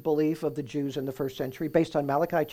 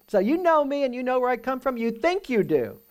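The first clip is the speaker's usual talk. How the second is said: ironic; 9 semitones higher, 3 dB louder than usual. Shown as a demonstration. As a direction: tease them, doubting their claim. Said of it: "or it could be ironic".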